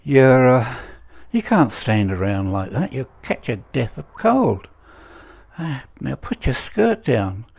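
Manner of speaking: half-hearted Scottish policeman; poor Scottish accent. Acted. Glasgow policeman telling off a woman he knows, attempted Scottish accent. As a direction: have a shaky go at a Scottish accent. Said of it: "I can't do a Scottish accent".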